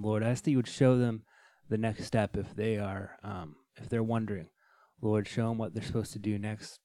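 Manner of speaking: earnest spoken prayer. Real, not acted. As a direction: pray sincerely for listeners. Closing prayer.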